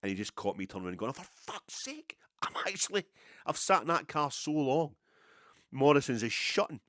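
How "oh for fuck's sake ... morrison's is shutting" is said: hissed whispered curse rising to a loud, high rant; frustrated outburst. Retold or imitated. To himself, seeing Morrison's shut, whispered curse then loud rant. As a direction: vent at the shut shop, starting hushed then loud. Swearing as the store shuts.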